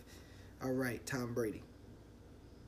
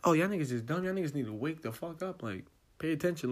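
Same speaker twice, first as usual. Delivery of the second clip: raised, louder voice calling people out; mock Facebook rant; 6 semitones higher, 7 dB louder than usual. Posting on Facebook to tell everyone, loud mock scolding. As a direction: scold your followers loudly, half-playing. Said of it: "was like".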